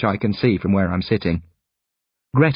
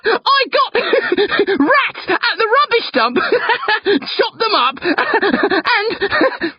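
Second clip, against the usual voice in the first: high, helpless laughing between words; crying with laughter; much slower than usual. A narrator's reading. Brother confessing his prank, crying with laughter. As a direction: gasp it out through fits of laughter. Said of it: "crying with laughter".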